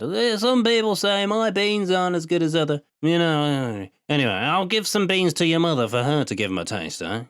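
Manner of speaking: put-on high, slow, pleased old man's drawl; drawling old farmer. A narrator's reading. Old Leo boasting about his beans to the boy, slow pleased drawl. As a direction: savour the praise like a proud old farmer. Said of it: "He drawled off".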